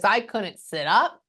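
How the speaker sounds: slow, drawn-out retelling; a light imitation of a mother in pain; slow, strained mother. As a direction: drag it out as if every move hurts. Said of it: "That's how she sounds in my brain".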